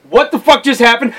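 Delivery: retold startled disbelief; baffled player. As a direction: act out a gamer caught off guard.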